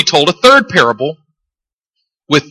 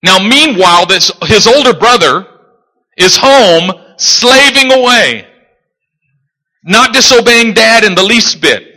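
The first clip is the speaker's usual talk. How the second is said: emphatic preaching; 5 semitones higher than usual. Real, not acted. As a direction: stretch the key words from the pulpit. Preaches at full force.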